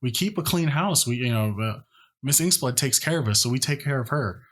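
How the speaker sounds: lightly voiced nervous young man; nervous servant voice.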